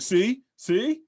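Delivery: high, rising told-you-so; mock gloating. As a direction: crow it to the whole table. Winning player gloats to the table.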